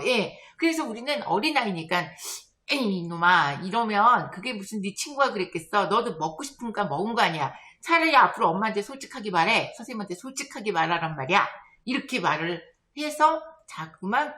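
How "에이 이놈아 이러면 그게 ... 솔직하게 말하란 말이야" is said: quick, mock-stern telling-off; correcting adult. Adult urging child to tell the truth, mild scolding. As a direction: chide a child briskly, lightly acted. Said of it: "어른들이 이야기를 하죠".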